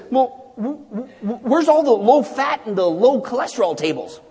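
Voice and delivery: hesitant stammer into a question; mock-timid old man. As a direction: ask timidly, tripping over the first word. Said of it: "he asks timidly".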